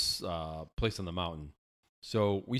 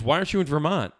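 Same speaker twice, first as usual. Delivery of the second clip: questioning woman; 8 semitones higher, 6 dB louder, faster than usual. Retold or imitated. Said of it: "And she goes".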